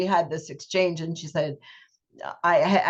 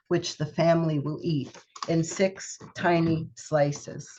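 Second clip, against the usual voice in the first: steady storytelling poetry reading; poem reading. Acted. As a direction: read it like a remembered childhood scene. Reads second poem, The Oven.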